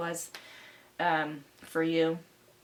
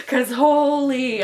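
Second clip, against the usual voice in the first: excited; 7 semitones higher, 12 dB louder, much slower than usual. Real, not acted. Exclaims about roller coaster.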